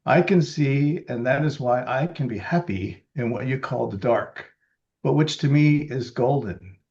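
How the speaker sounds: measured, slightly slowed quotation reading; quote reading. Acted. Reading Helen Keller's words to the group, measured. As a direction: read it out like a cited passage.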